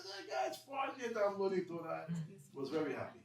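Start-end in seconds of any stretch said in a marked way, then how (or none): 0.0-2.1 much higher, louder, slowed shout; overjoyed shout. Retold or imitated. Groom telling wedding guests why he's happy, joyful shout. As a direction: burst out with happy news.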